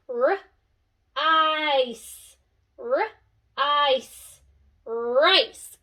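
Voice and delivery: onset and rime, then Rice; sounding out. Shown as a demonstration. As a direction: split then blend. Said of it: "figure it out together".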